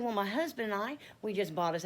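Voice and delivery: lifted, happily announcing news; happy. Retold or imitated. Telling Miss Joyce about the new home, happy. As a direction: retell it all happy, pitch up. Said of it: "I'm all happy".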